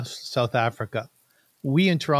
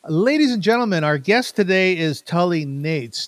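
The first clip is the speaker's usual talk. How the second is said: announcer intro; 3 semitones higher than usual. Acted. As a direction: present her like a stage announcer. Introducing the guest like a host.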